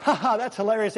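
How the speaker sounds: put-on funny laugh; mock hilarity. Shown as a demonstration. Preacher showing what God's laugh is not, mock hilarity. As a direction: pretend it is hilarious. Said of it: "not like".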